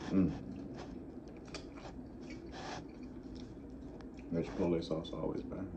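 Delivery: talking while chewing; words around food; mouth partly full. Real, not acted. Seen 0: bit chalupa at -5, jaw still working while speaking.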